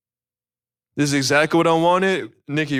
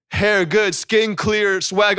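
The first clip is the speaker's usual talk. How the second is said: mock hype; 5 semitones higher, much slower than usual. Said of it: "Oh, no, I'm just kidding".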